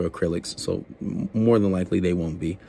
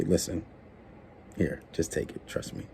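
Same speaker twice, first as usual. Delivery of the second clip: quiet coaxing; 3 semitones lower, 11 dB quieter than usual. Acted. Coaxing a girl to take gum.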